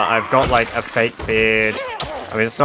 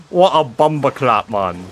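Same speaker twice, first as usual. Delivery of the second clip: London slang; 3 dB louder than usual. Retold or imitated. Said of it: "feels really offensive when I say that".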